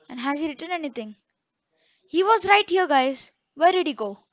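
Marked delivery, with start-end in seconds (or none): 2.1-4.2 sudden loud alarm; jolted up, louder and higher; startled shout. Real, not acted. Ghost vanished, startled.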